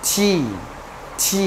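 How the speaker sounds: টি with a gentle tap and long ee; touch the t of টি lightly; soft-onset, drawn-out টি. Shown as a demonstration. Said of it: "হালকা করে বলতে হবে".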